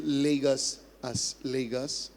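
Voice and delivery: unaccented "Lagos", no K in it; correct pronunciation. Shown as a demonstration. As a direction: say "Lagos" plainly, with a G sound. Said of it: "The focus should be pronouncing".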